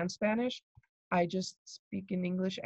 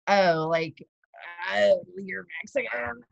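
mock remark; 4 dB louder than usual. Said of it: "people be like".

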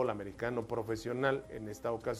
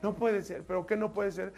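put-on worried boyfriend; 5 semitones higher than usual. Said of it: "bien preocupado le dice".

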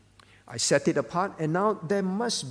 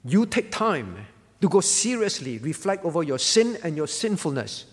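firm, emphatic voiced command; preacher voicing God's instruction, punching key words; 4 dB louder than usual. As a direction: lay it down as a divine order. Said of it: "Verse nine is God saying".

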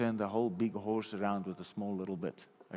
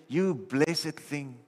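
gentle blessing; 4 semitones higher, much slower than usual. Pretend. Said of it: "why don't we say".

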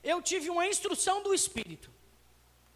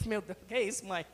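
put-on scared child; 8 semitones lower, 4 dB quieter, faster than usual. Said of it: "Eu falo".

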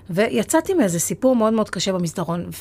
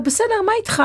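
retold teary reply; 12 semitones higher than usual. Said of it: "ומתחילה לבכות עליו".

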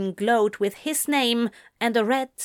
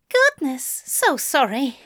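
much higher, flustered and breathless; flustered gasp; 5 semitones higher than usual. Acted. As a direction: gasp out an embarrassed apology after a belch. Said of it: "he gasped".

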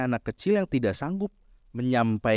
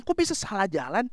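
higher, mildly nagging question; nagging wife; 6 semitones higher than usual. Retold or imitated. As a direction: imitate a wife scolding the driver. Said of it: "Istri saya bisa ngomel loh". (tiruan istri ngomel)

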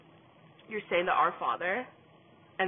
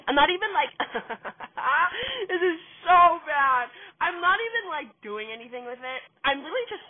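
high, breaking into giggles; laughing; 10 semitones higher, 8 dB louder than usual. Real, not acted. Cracking up at her own story, laughing through it.

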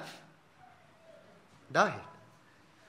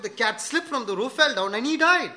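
gently breaking it; 4 semitones higher than usual. Retold or imitated. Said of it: "you could have said".

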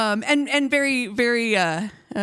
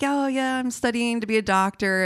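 higher-pitched, lightly imitated British accent; 4 semitones higher than usual. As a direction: mimic a British guy chatting someone up. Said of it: "it was a British guy".

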